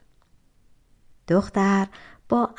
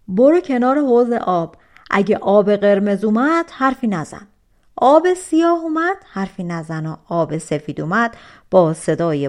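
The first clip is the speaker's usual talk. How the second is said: pleased giant; 5 dB louder than usual. Acted. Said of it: "دیو با خوشحالی به دختر گفت".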